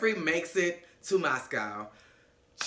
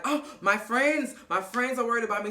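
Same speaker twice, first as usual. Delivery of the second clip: imitated breezy cover-up; 5 semitones higher than usual. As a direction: play her grasping to break the tension. Imitating her covering the awkwardness.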